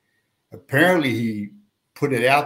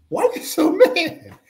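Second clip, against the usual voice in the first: puzzled question; 5 dB louder than usual. Retold or imitated. Retold argument with future wife.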